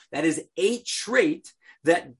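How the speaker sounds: a stretched out and set apart; stress on a. Shown as a demonstration. Teacher correcting himself to the class, stressing a. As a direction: lean on the word a so it means one trait among others. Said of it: "not the".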